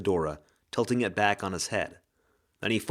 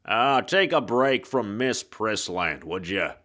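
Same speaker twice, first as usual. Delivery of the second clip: hard-boiled ghost. Acted. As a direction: drawl it like a noir gumshoe. Ghost detective voice.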